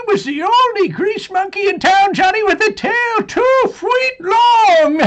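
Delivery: put-on old man cackling through his own joke; laughing. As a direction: laugh out the punchline. Tall tale told with laughter.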